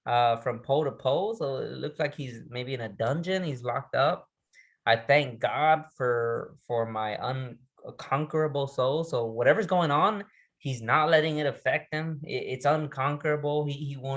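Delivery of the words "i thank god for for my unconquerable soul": slow, deliberate quoted line; measured recitation; poem recital. Acted. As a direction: lean into each word like a vow.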